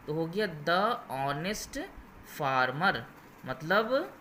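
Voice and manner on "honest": Honest with a silent H, starting on the vowel. Shown as a demonstration. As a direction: say Honest slowly, opening on अ instead of ह. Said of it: "यहाँ पे एच silent होता है". (Honest में एच silent, अ से शुरू)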